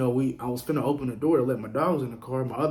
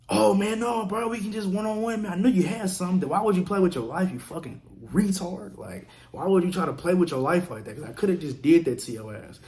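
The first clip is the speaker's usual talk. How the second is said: mock panic; 6 semitones higher than usual. Knife guy begging for a fair fight once he sees the gun, much higher mock-frightened voice. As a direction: squeal it like a scared guy pretending to be tough.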